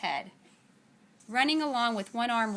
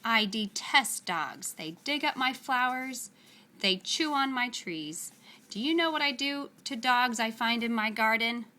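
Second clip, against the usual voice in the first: growl; 2 semitones higher than usual. Acted. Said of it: "a voice that was more like a growl".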